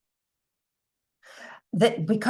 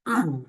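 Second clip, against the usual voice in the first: settling hum; 3 semitones lower than usual. Retold or imitated.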